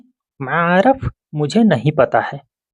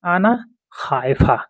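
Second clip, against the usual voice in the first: slow demo; 3 semitones higher, 3 dB quieter than usual. Shown as a demonstration. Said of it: "अरबी".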